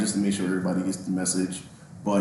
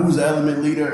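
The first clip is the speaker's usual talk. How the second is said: mild mock yell, pitched up; retold scream; 5 semitones higher, 4 dB louder, faster than usual. Sergeant demanding the element leader, retold scream. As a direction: call out like an angry sergeant. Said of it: "he's screaming out".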